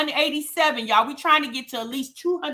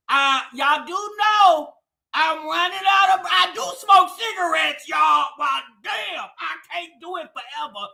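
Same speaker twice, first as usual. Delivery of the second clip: out of breath. Real, not acted. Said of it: "I'm running out of breath here".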